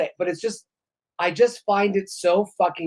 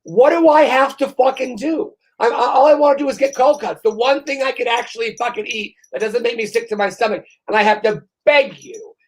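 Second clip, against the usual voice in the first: exasperated rant; 5 semitones higher than usual. Retold or imitated. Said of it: "And I'm like".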